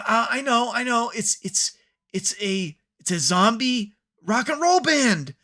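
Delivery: high-pitched flailing writer, hammed up; mock frantic brainstorming; mock desperation. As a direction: babble in pretend panic, pitched high. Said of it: "desperation. Like".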